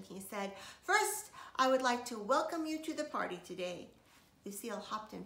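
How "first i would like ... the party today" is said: announcing. A narrator's reading. Daddy welcomes guests.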